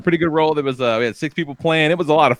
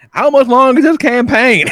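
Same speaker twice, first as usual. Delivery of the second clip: imitating a Southern gamer, higher and louder through a laugh; mock Southern nerd; 11 semitones higher, 6 dB louder than usual. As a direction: tease a Southern nerd by laughing out his question. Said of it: "accent and twang to them".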